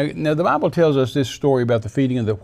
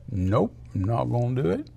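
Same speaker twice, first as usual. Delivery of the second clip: softer, offhand refusal; casual refusal; 6 dB quieter than usual. Acted. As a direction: turn it down quietly, rising at the end. Voicing a person refusing God.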